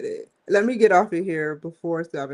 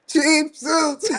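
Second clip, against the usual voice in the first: a lightly put-on higher hawker's voice; mocking seller voice; 9 semitones higher, 5 dB louder than usual. Mocking overseas sellers to viewers, put-on hawker voice. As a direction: toss it off like a pushy street seller. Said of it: "they like".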